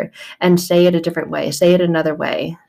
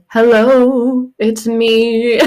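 higher, louder singer-style hello; 4 semitones higher, 4 dB louder, much slower than usual. Retold or imitated. Jesus greeting you, mock crooning like a pop singer. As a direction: croon it like the famous ballad opening. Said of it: "Like Adele".

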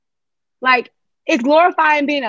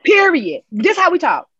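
higher, firm African-American dialect declaration; home dialect; 5 semitones higher than usual. Shown as a demonstration. Speaker insisting to panel on her dialect, proud. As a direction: plant it like a flag, in dialect. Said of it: "I speak in African-American dialect".

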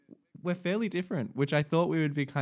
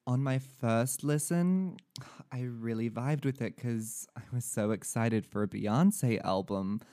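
put-on American reviewer accent. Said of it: "you changed accents halfway through".

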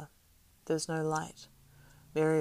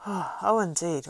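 higher and louder surprised exclamation; 4 semitones higher, 9 dB louder, much slower than usual. A narrator's reading. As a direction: caught off guard, exclaiming.

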